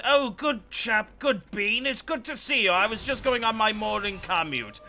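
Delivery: hammed-up hearty Teddy voice; Teddy Roosevelt impression. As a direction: boom it out like a jolly turn-of-the-century president. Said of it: "and he goes".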